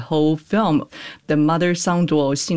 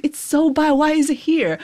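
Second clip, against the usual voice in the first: high, incredulous mock outrage at a bad film; mock outraged viewer; 10 semitones higher than usual. Guest imitating viewers who mocked the film online, mock outraged and high. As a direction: play a baffled viewer venting online. They was like.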